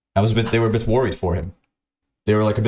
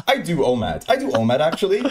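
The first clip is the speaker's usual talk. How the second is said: mock Californian drawl; 5 semitones higher than usual. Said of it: "I can't even do it properly".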